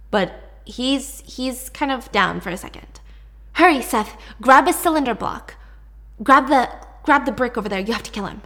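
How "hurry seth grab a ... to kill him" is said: urgent. Retold or imitated. Urgent command in retold fight.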